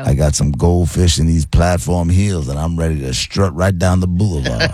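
lightly voiced smooth brother, slowed; a hint of a smooth seventies brother. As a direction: strut through it like a disco dude. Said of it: "I don't like the accent thing".

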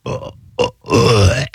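acted low, drawn-out groans of agony; repeated pained "uh" sounds; cringing groan. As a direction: groan as if doubled over by an awful memory. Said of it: "you kinda double over and like".

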